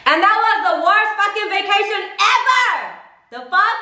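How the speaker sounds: high, exasperated exclamation; exasperated rant. Real, not acted. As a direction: throw it up high in disbelief. Ranting about worst vacation.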